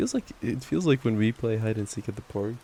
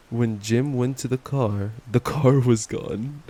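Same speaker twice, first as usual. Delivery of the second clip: louder, slow, stunned reread; mock shocked reread; 5 dB louder, slower than usual. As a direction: read it again as if you can't believe it.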